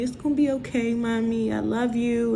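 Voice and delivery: gently imitating her child saying she loves her; voicing her daughter. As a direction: lift the pitch for a small child's comfort. Daughter comforting her mother.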